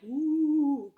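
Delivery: a high mock ghostly "ooh"; spooky ghost moan. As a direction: tease it like a cartoon ghost. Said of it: "He's not saying there's actual, like".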